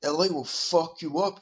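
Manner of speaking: lightly put-on voice of a slow-talking fighter; mocking impression, slowing down as it goes; mock slow talker. Mocking the way the fighter talks, lightly imitated slow talker. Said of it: "fucking the way he talks".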